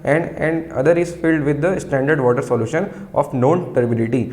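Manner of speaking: very slow, word by word, for students to write down; slow dictation. Shown as a demonstration. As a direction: dictate each word clearly so the class can copy. Dictating from textbook.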